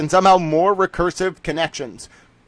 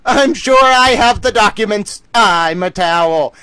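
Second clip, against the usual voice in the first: excited retort; 5 semitones higher, 5 dB louder, slower than usual. Retold or imitated. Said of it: "And you're like".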